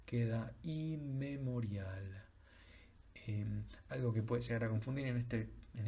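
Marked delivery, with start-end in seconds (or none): 0.6-2.2 inmemorial said slowly in French with a short m; slow demo of inmemorial; French word, slow. Shown as a demonstration. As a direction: spell out inmemorial in French, no long m. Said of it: "no hay una M extendida".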